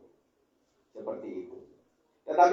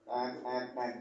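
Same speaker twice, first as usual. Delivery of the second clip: soft beeps; 6 dB quieter, slower than usual. Retold or imitated. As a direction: mimic a truck backing up softly. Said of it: "Kayak truk mundur itu loh".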